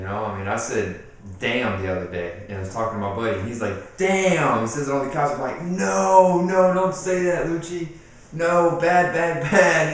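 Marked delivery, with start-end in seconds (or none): 4.0-4.6 higher, louder exclamation; punchy imitation of a little nephew; nephew copying a curse. Mimics nephew repeating the word. 5.6-9.9 loud, high, drawn-out no; mock-alarmed telling-off of a nephew; scolding a child. Acts out scolding his little nephew.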